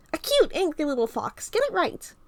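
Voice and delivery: high playful teasing voice. Acted. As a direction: tease him sing-song.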